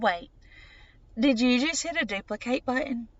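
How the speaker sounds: mildly taken aback, checking what was seen; puzzled question. Retold or imitated. Patient questions doctor during the ultrasound, mildly puzzled. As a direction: pause after the first word, then a puzzled query. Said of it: "My eyes strained".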